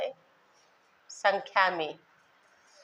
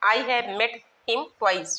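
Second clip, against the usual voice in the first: very slow, stretched dictation; teacher dictating a sentence to students; 2 semitones higher, much slower than usual. Shown as a demonstration. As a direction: draw each word out for note-taking. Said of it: "देख लीजिए example".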